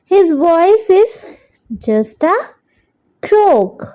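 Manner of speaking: very slow, word by word for copying down; slow dictation. Shown as a demonstration. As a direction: dictate it so children can write along. Dictating third question twice.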